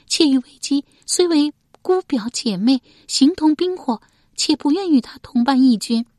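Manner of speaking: high, loud female voice explaining her objections; concubine refusing. A narrator's reading. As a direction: argue your case firmly in the concubine's voice.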